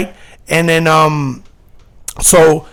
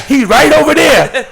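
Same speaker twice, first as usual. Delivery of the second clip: excited reply; 7 semitones higher, 5 dB louder than usual. Retold or imitated. Friend's reply voiced.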